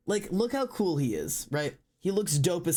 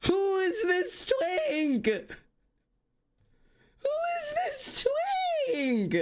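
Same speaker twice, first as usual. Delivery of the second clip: very high, drawn-out melodramatic cry; hammed-up high-pitched anguish; outraged wail; slower than usual. Real, not acted. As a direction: wail it in horrified disbelief. Wailing outrage at redesign.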